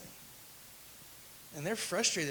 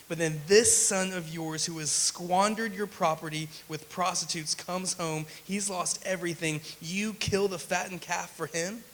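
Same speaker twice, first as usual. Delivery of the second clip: louder, aggrieved complaint building to an outburst on "You celebrate him"; sulky son listing grievances, hammed up; indignant older brother; 3 dB louder than usual.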